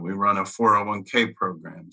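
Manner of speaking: ordinary talk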